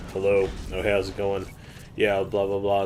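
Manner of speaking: retold switch back to casual American; American accent. Friend calls and he forces his American accent. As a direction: answer a friend's call in American. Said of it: "go back into American".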